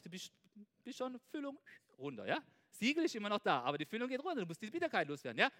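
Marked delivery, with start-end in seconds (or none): none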